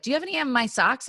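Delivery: a hint of a child asking, rattled off fast; kid's question. Stepdaughter asking stepmom for socks, lightly voiced kid.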